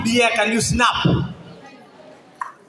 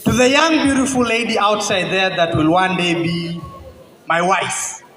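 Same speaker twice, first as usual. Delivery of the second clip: measured love-poem recitation to a crowd; spoken word poem. Acted. Poet addresses his future wife, spoken word recitation. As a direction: declaim it phrase by phrase, letting pauses land.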